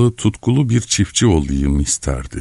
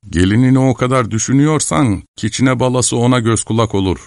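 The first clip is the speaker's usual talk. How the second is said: higher character voice, lightly persuasive; pleased team leader; 7 semitones higher than usual. A narrator's reading. Team leader pointing at the boy, mildly pleased. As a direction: offer the idea with mild relish. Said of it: "Beni gösterdi keyifle".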